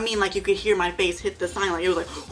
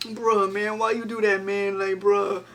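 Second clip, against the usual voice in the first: lightly voiced friend, puzzled; easygoing bro asking why; a light touch of a baffled buddy; impression of James; slower than usual. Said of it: "And so he's like".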